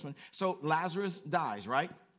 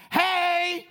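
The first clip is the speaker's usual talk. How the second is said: loud high hammed-up greeting; mock loud, bright entrance call; big entrance hey; 13 semitones higher, 12 dB louder than usual. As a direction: burst into the room shouting hello. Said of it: "come in a room big".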